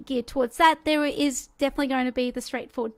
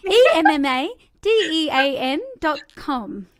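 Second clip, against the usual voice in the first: spelled out through a laugh; giggling, spell it out clearly; laughing while spelling; 3 semitones higher, 7 dB louder than usual. Real, not acted. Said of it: "oh my gosh".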